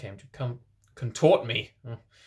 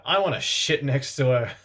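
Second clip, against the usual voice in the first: petulant yell; 3 semitones higher, 5 dB louder than usual. Acted. Boys fight over seat.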